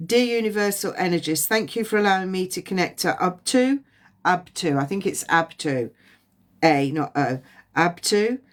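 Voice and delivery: a lightly voiced, measured prayer to the universe; release prayer. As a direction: recite the release like a calm invocation.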